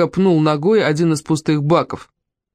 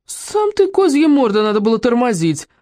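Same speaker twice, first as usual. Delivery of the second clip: yelling back; 7 semitones higher than usual. A narrator's reading. Worker shouting back at the doctor, angry high yell. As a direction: yell back, pitch jumping way up. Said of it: "В свою очередь заорал работяга".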